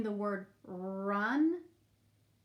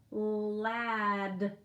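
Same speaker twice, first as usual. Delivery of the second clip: dying robot voice. Shown as a demonstration. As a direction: sound out ladder like a winding-down robot. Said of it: "like a robot whose batteries are dying".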